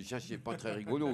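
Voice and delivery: hushing lisp, s as sh; little boy's lisped grumble; speech defect. Acted. Little boy answering his classmate's prank, lisping. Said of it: "il parle comme ça".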